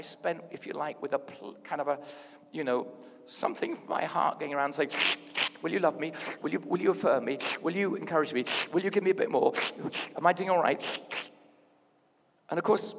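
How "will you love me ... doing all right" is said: loud, insistent string of questions; mock-needy, pressing for reassurance; needy pleading. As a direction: beg for approval, one question after another. Acts out heart's needy pleading.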